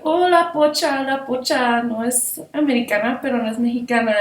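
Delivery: high, sing-song schoolyard taunt in Spanish; mock her the way the kids did, in Spanish. Kids in Guadalajara taunting the narrator, high sing-song mockery.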